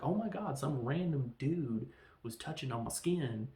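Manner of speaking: imitated freaked-out complaint; mock freak-out. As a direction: act out a scandalized reaction. Mock outrage at being touched.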